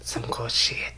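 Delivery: slow, hushed whisper; creepy mock whisper. Prankster murmuring about porridge through the flap, slow whisper. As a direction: savour it slowly under the breath, whispering. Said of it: "whispering the thing".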